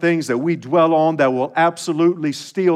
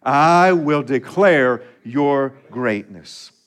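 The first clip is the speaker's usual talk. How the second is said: recited in unison; 5 dB louder, slower than usual. Shown as a demonstration. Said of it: "Will you say that with me?".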